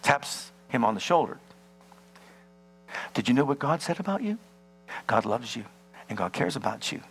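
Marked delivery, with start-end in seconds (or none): 3.1-7.0 gentle messenger. Acted.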